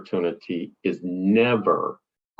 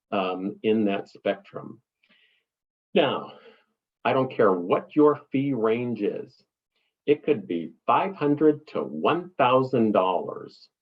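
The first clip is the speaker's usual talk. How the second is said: ordinary talk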